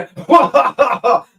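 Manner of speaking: high loud burst of laughter; a real laugh after mocking dumb Americans. Real, not acted. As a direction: laugh at your own joke. Laughs at own joke.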